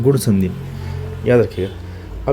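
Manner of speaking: गुण संधि में drawn out slowly, each word weighted; slow down and lean on याद रखिएगा so it sticks; deliberate, slow teacher emphasis. Shown as a demonstration. Teacher stressing a key point.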